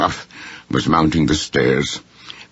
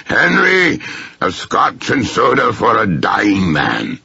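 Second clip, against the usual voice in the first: much higher, louder call for Henry; loud cry; 6 semitones higher, slower than usual. Acted. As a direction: bellow it up the stairs, then slow down. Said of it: "loud cry of".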